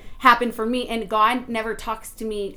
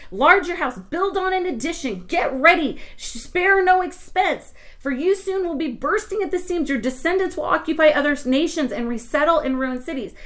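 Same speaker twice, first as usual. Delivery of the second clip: 1 commanding voice of God; 5 semitones higher than usual. Retold or imitated. Voicing God's command.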